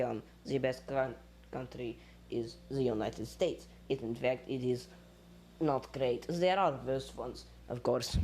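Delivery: Russian-accented English, th turning to z. Shown as a demonstration. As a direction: talk world facts in a Russian accent. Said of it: "I do the Russian accent when".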